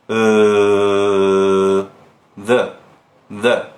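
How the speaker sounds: "Uh" then "the" with a fully relaxed mouth. Shown as a demonstration. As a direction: let the jaw go loose on "the". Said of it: "É assim que eu falo".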